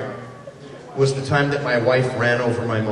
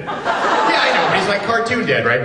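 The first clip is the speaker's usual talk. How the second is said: hopeful protester; 6 semitones higher than usual. Retold or imitated. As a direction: plead the loophole in a pitched-up voice. Actor protests in retold dialogue.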